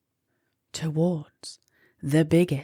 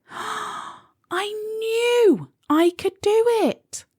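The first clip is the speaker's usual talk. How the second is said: much higher, slow, proud; triumphant; slower than usual. A narrator's reading. Molly on the real moon, proud and thrilled. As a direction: savour the victory.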